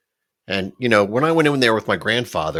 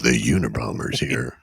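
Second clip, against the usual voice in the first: mock alarmed clerk; 8 semitones lower than usual. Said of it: "It's like".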